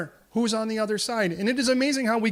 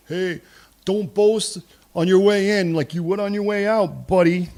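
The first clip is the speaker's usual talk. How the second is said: mocking warning; 8 dB louder than usual. Warning to boasting king.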